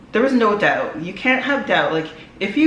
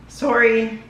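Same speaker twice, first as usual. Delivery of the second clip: voice cracking; 4 semitones higher than usual. Real, not acted. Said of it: "my voice just cracked there".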